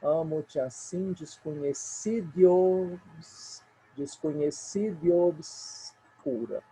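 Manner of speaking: slow, "desconhecidos" drawn out; scanning verse. Shown as a demonstration. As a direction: scan slowly, stretch the line. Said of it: "sequência de vogais".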